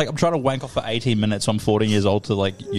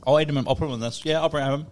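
talking while munching chips; crunching chips. Real, not acted. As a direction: mouth full of chips. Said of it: "I'm just eating more and more chips".

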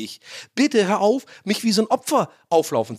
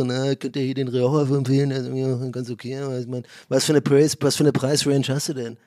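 pretentious wine seller; 3 semitones lower than usual. Retold or imitated. Wine seller voiced in anecdote.

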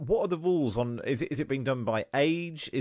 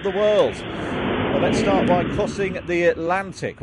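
airline captain addressing passengers over intercom; pilot cabin announcement. Pretend. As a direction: play it like a pilot welcoming everyone aboard. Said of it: "this is your captain speaking".

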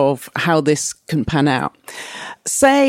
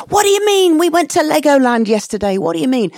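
much higher and louder, incredulous outburst; exasperated parent; 8 semitones higher, 5 dB louder, faster than usual. Retold or imitated. A parent arguing with a bored kid about yesterday's trip, exasperated and incredulous. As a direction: snap back in disbelief, then fade by the last question.

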